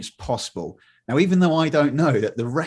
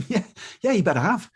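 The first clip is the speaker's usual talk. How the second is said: mock sarcastic agreement; 9 semitones higher than usual. Mocking reply to the receptionist.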